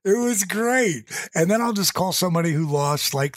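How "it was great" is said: a bit higher, slowed, calmer echo; pleased. Real, not acted. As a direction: repeat it more gently, still glad. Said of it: "Wow. That's a good call".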